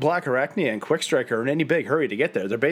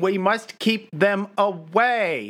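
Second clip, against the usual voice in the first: villain voice; 7 semitones higher, slower than usual. Retold or imitated. Voicing Tarantulas' loud orders.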